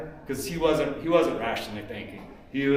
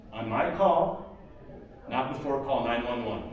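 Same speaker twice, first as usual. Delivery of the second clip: calm firm order. Retold or imitated. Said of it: "I'm like".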